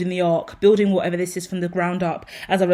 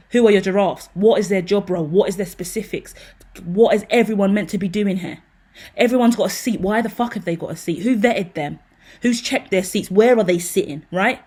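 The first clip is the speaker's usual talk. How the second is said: louder, demanding questions fired at the team; a fed-up CEO grilling the staff; irritated boss; 4 dB louder than usual. Real, not acted. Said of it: "stepping into managerial mode".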